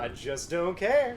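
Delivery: loud, high, drawn-out indifference; emphatic defiance. Real, not acted. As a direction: belt it out slowly, unapologetic. Repeats defiance over others.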